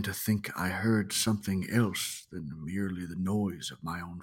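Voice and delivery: hushed, lightly guttural storyteller quoting a hiker; rustic guttural voice. Acted. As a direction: read it low-key, with a hint of a rustic old-world narrator. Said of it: "in a sort of rustic, um, guttural voice".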